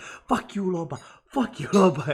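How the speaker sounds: acted, very loud, high-pitched laughing jeer. Retelling a match, the speaker quotes a teammate's reply: imitating Rigon laughing. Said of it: "he starts laughing like".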